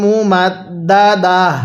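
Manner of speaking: slow, drawn-out recitation; recitation demo. Shown as a demonstration. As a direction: recite it for students to repeat. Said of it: "তাহলে আমার সাথে পড়ুন".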